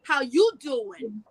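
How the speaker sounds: slow, stretched-out suave greeting; lightly put-on cool-guy line; catchphrase impression. Taking her turn when asked, slow playful catchphrase. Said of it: "Let's hear you".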